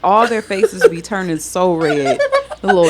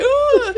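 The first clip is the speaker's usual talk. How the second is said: high imitated wail; hammed-up little sob; mock crying. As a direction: imitate a child breaking down in a high "ooh". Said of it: "we just in there crying, broke down".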